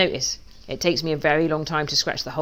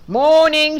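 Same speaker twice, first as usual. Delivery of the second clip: calling out; 10 semitones higher, 7 dB louder than usual. Acted. Duck calls to sheep.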